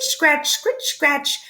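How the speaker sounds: scratching noise. A narrator's reading. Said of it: "the noise of a hoe".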